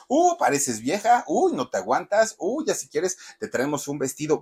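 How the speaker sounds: high, loud taunting, fading down; teammates mocking. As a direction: taunt him like a cruel teammate, then ease off. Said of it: "le hacían una de burlas".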